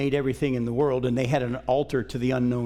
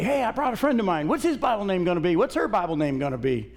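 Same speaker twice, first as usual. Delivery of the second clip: imitating kids, higher and quicker; quick, high-pitched mock youth-group chatter; eager youth; 4 semitones higher, faster than usual. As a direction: rattle it off like an eager kid reporting in. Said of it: "whenever they'd come, they'd say".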